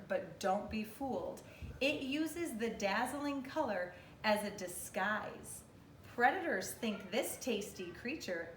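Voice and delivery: measured, expressive picture-book narration. Real, not acted. Teacher reading an animal book to kindergartners, expressive read-aloud.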